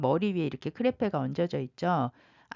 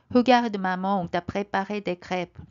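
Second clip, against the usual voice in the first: proud; 3 dB louder, much slower than usual. Acted. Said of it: "의기양양한 표정으로".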